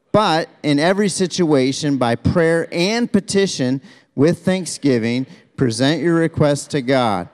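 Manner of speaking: deliberate reading, stressing "and" in the list; emphatic scripture reading. Shown as a demonstration. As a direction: lead a group reading, leaning on key words. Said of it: "leads you to emphasize a word".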